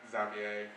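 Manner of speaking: Xavier said as ZAV-ee-ay; a foreign-style ZAV-ee-ay; wrong pronunciation. Shown as a demonstration. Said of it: "most of them are wrong".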